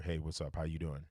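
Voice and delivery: low, soft seductive greeting; sexy voice. Shown as a demonstration. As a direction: purr the greeting into the mic. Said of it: "sexy voice right here".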